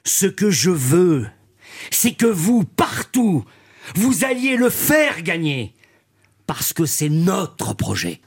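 slow, solemn statesman oration; Mendès France impression. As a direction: declaim it like an old-school statesman. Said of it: "La phrase de Macron à la façon de Mendès France".

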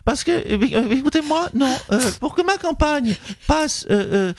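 Nathalie Loiseau impression. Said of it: "Bonjour Nathalie Loiseau".

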